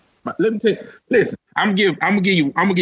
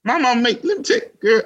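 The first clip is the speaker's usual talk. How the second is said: laughing; 8 semitones higher than usual. Real, not acted. Laughing at mama question.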